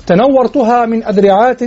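إلقاء شعر؛ نبرة صاعدة على تنورتها؛ ارفع الصوت على تنورتها كالمنشد؛ إنشاد تنورتها بنبرة صاعدة. Shown as a demonstration. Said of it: "طبعًا مع إثبات".

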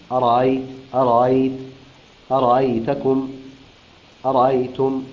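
أرأيت with the second hamza eased between hamza and alif; tasheel of hamza. Shown as a demonstration. Quran teacher demonstrates tasheel on أرأيت. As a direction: soften the middle hamza in أرأيت, no hard stop. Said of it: "هكذا التسهيل".

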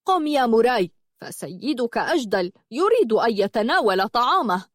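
scolding command; stern rebuke. Acted. Ordering Muray away from his master's seat, scolding. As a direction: order him up with a reprimand. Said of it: "وقال يعنفه".

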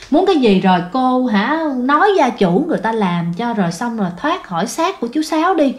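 hạ giọng dỗ dành nhẹ nhàng; dịu lại để năn nỉ vong. Retold or imitated. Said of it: "bà bắt đầu bà dịu cái giọng". (bà thầy dịu giọng năn nỉ vong nhỏ)

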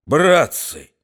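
quavering, tearful call to the mob; trembling whine. Acted. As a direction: plead like a wounded bully. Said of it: "говорил он дрожащим, плачущим голосом".

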